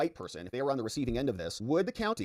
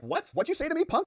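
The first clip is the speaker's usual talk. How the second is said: mock tough reply.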